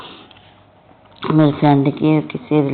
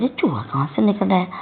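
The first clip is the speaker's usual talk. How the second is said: a higher, startled question, retold; retelling her shock at a mouse, higher-pitched and surprised; startled surprise; 5 semitones higher than usual. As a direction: ask in sudden surprise at the mouse. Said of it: "तो मैं हैरान हो जाती हूँ".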